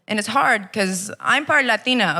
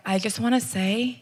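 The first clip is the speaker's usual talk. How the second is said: soft, slow, gentle sympathy; quietly offered consolation; consoling stranger; 5 dB quieter, slower than usual. Retold or imitated. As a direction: imitate a kind stranger comforting someone. Stranger consoling her in retold scene.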